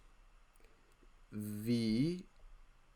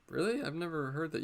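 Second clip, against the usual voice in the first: mock surprise; 5 semitones higher, 3 dB quieter than usual. Mock surprised reply to the kid.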